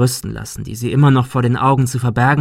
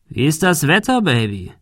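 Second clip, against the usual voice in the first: mocking taunt; 5 semitones higher than usual. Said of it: "fragte er".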